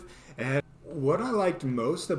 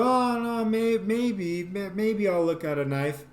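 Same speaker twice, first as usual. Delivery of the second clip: faux-hesitant stammer; 6 semitones higher than usual. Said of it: "So I go".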